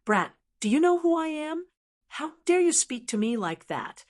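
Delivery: put-on menacing, threatening young master; lightly voiced sinister threat. A narrator's reading. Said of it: "said in a sinister voice".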